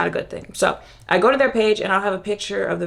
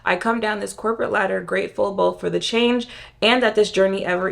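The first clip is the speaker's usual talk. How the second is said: stuffy nasal reading voice; reading aloud through a congested nose; blocked nose. Real, not acted. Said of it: "It says".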